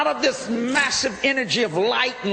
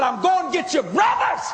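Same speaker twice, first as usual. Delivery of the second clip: Jesus shouting; 10 semitones higher than usual. Retold or imitated. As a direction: shout it out like a fiery preacher promising his people. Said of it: "And he began to shout".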